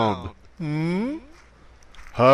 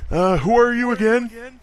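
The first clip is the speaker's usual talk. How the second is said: put-on halting, higher, wandering old-man voice; confused old candidate; 3 semitones higher than usual. Old candidate forgetting his own name, halting and confused. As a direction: lose the thread like a senile old man.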